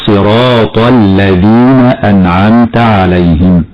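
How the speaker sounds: slow recitation, heavy full ط in "صراط"; emphatic ط. Shown as a demonstration. Teacher demonstrates the rule, heavy ط in "صراط". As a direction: thicken the ط at the end of "صراط". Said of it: "والطاء مفخمة".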